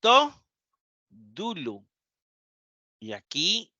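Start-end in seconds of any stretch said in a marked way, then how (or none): 0.0-1.9 modelling the accent on "dulo"; Greek dative read aloud. Shown as a demonstration. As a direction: say "To" up and bright, drop "dulo" away. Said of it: "Pongan atención a los acentos".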